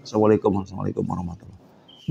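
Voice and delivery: gabbled fast and soft; rushed mock salam. Mocking a hasty worshipper, rushed and soft. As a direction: race through the salam like a hurried worshipper. Mocks hasty prayer ending.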